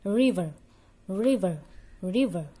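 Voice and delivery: "River" repeated with the R kept in the mouth; tucked English R. Shown as a demonstration. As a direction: drill "River" with pauses, R untrilled. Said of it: "R-nya kita simpan".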